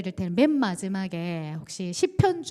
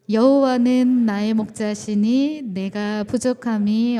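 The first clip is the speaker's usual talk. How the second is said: loud, slow, measured reading of 여호와는 with weight; unison scripture reading; 7 dB louder, slower than usual. Real, not acted. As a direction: lead the congregation's recitation, louder and slower. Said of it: "시작".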